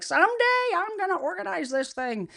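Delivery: mock vow. Voices a procrastinator's vow about clutter.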